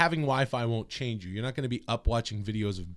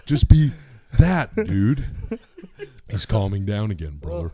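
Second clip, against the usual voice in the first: Hulk Hogan voice; 3 semitones higher, 7 dB louder than usual. Shown as a demonstration.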